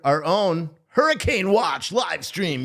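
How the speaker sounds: shouting the name of the new live stream; excited announcement. Real, not acted. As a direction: sell it like a big reveal. Big hype announcement to viewers.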